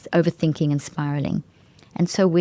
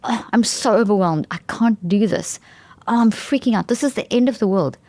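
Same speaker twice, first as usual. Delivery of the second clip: mock overwhelmed; 4 semitones higher than usual. Shown as a demonstration. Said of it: "So instead of saying".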